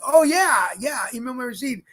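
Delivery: a jump up high and loud on oh, yeah; eager relief. Retold or imitated. Tourist relieved to finally understand the clerk, eager relief. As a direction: grab onto the one question you understood. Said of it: "I was like".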